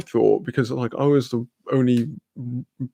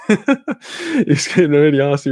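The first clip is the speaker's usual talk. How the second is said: laughing through the words; slow, cracking up at your own story; real laughter; 3 semitones higher, slower than usual. Real, not acted. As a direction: struggle to get it out for laughing. Cracks up before own punchline.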